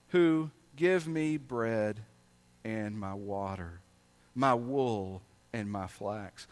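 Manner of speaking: slow, weighty Bible reading; solemn reading from the pulpit; scripture reading. Acted. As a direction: read the verse as God's own words. Reads scripture aloud.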